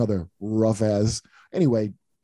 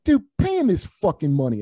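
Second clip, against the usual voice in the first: mock stern order; 7 semitones higher than usual. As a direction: snap it at him like a bouncer. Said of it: "the dude goes".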